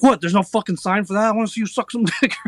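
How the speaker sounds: mock the outrage, fast and high; a hint of a stunned comedian; mock Kevin Smith rant. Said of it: "He's like".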